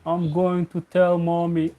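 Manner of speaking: put-on playful kid voice; mock child voice. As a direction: tattle like a small child. Mock childish threat to tell mommy.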